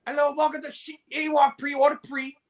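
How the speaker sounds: put-on high-pitched Asian-accented order taker; hammed-up high Asian accent; caricatured Asian accent. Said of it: "how about this one?".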